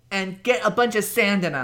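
put-on high, valley-girl style woman's voice; typical white girl voice. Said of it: "This is my typical white girl voice".

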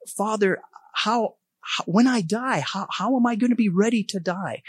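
put-on little girl asking. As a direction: ask like a little girl, high and timid. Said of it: "she'd say".

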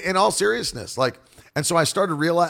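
normal talking voice

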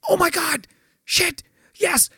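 high, urgent mock panic; acted burst of sudden eagerness; imitating a flustered friend; excited realisation. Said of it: "And Adam's like".

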